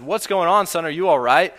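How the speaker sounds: father shouting to his son; dad yelling. Retold or imitated. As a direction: call down to the field, worried. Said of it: "his dad yelled down from the stands".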